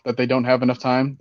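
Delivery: voice crack. Real, not acted. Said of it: "That was a bit of a voice crack".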